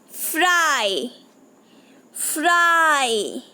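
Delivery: फ्राई slow with a long ai; slow demo word. Shown as a demonstration. Teacher sounds out a picture word for children, slow. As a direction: draw फ्राई out for the class. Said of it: "सुना children मैं क्या बोल रही हूँ".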